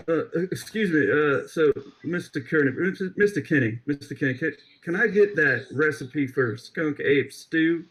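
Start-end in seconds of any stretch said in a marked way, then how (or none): 2.1-7.8 put-on southern accent. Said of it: "working on my southern accent".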